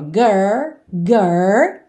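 put-on "Girl" cut to "gurr" with a rolled-back tongue; curled R, no L. Shown as a demonstration. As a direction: stop "Girl" midway on the American R. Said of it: "Pensa nesse R".

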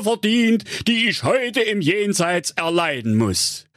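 high, wailing otherworldly admonition; warning ghost. A narrator's reading. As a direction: warn solemnly as a dead partner's ghost.

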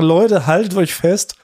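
slow, drawn-out hype announcement; clickbait video narrator. Pretend. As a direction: stretch it out like a teaser. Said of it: "Dann können wir sagen".

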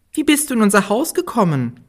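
high curious dwarf voice. Acted. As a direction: ask as a curious little dwarf. Dwarfs ask.

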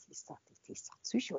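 fast, frightened whisper; a walker thinking, alarmed, that the stranger is crazy; whispered aside. Retold or imitated. Scared thought during confrontation.

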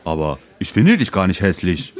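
mildly baffled protest; a touch of puzzlement; perplexed. Acted. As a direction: object with understated bewilderment. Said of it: "sagte Harry perplex".

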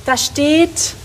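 high, loud call across the room; excited loud calling. Acted. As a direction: shout for Birte to come see.

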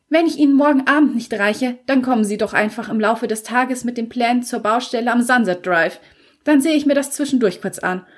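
etwas höhere, genervte Frauenstimme; müde und gereizt, nur angedeutet; leicht gespielte Allison. Acted. Allisons Stimme, Figur. (Allison erklärt Ian genervt am Telefon, leicht höher)

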